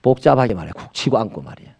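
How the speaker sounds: muttered annoyed complaint, dropping soft; a mild mock grumble; irritated grumble. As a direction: grumble at the stranger who bumped you. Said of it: "옛날에는 그래요".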